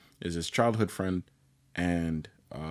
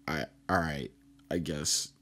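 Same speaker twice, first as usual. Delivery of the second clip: lower, deflated retold acceptance; mock dejected, giving in reluctantly; halting, half-hearted agreement; sad, resigned; 4 semitones lower, 4 dB quieter than usual. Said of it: "Sad face".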